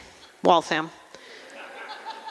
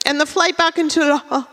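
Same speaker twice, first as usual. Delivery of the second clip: higher, affected Frenchified airport name; pretentious French accent; 5 semitones higher than usual. Acted. Friend describes flight home to Logan, French affectation. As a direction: show off with a swallowed French-style ending. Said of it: "come back speaking in an accent".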